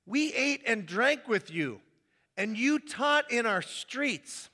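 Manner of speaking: slow, drawn-out protest. Acted. Crowd outside reminding Jesus of meals, slow. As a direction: spell out the claim slowly.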